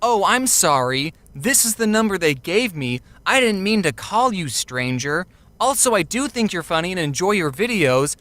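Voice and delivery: mild polite apology in own pitch; apologetic. Acted. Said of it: "if she had said it like".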